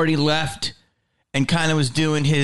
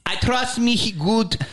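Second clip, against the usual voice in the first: imitated club owner in pitched-up broken English; Jamie Masada; 6 semitones higher than usual. Club owner pushing a comic as opener, imitated insistent voice. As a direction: keep pushing in a mock promoter voice. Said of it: "He's like".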